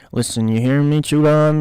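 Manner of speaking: loud, forceful demand; shouting. Acted. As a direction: bark it right in his face. Briscoe shouting at Smitty.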